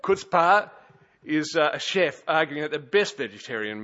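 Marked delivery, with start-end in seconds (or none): 0.0-0.7 emphatic announcement. Real, not acted. Emphatic word before example.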